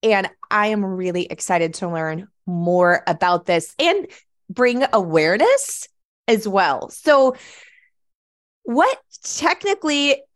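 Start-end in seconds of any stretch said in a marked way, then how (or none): 3.8-6.9 falsetto on stressed words. Real, not acted. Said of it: "My voice goes high when I get excited". 6.9-10.2 high, loud excited so; squeaky high excitement; falsetto on stressed words. Real, not acted. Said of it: "My voice goes high when I get excited".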